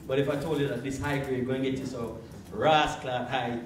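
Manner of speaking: demonstrating a Jamaican patois lilt; Jamaican accent. Shown as a demonstration. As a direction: slip into a Jamaican accent to pitch it. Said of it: "I'm Jamaican".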